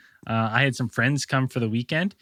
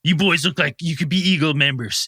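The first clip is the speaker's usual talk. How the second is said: a hint of a tipsy club vice president; lightly voiced drunk official; 3 semitones higher than usual. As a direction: pitch the club to the boys, lightly slurred. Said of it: "He goes".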